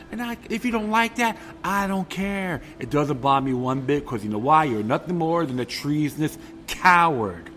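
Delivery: loud, furious tirade; angry rant. Real, not acted. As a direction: lay into him hard.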